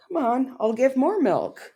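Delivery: high squeaky begging cow; mock cow voice. Teasing her about the cow clip, squeaky cow voice. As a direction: pitch it way up and beg for milk. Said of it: "you showed, like".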